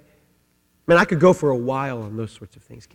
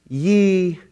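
ordinary talk, nothing marked

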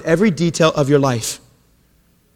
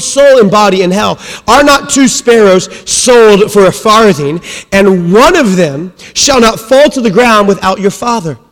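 scripture reading; 3 semitones higher, 6 dB louder than usual. Acted. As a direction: proclaim the verses to the congregation. Reads scripture passage aloud.

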